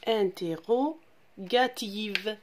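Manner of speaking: "Interrogative" said again a little slowly, each syllable clean; teacher repeats "Interrogative" carefully; clear repetition. Shown as a demonstration. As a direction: repeat it once for the class to copy. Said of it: "Je répète".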